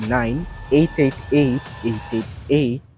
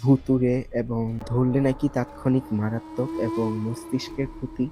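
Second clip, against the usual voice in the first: hushed late-night voice; speaking softly; 7 dB quieter than usual. Real, not acted. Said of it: "তো রাত, তাই একটু আস্তে কথা বলছি".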